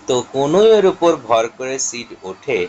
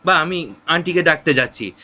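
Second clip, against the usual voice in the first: alarmed; 7 semitones higher than usual. Acted. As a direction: panic and threaten to fetch aunty. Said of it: "সিড তখন এবার বলছে".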